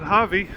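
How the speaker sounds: Hawi with a V sound, HAH-vee; local pronunciation. Shown as a demonstration. Rider showing how everybody says the town, Hawi pronounced with a V. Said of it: "everybody pronounces it".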